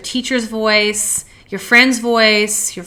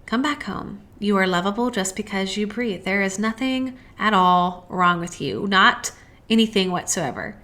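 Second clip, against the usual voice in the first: softer, gentle and loving, as if coaxing someone home; tender soul voice; 6 dB quieter than usual. Pretend. Her loving soul voice comforting her, soft and tender. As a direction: speak like your kindest inner self, much softer. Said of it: "my soul's voice, which says".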